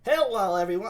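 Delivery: a hint of young Claudio, high; young boy voice. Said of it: "give him the young boy voice".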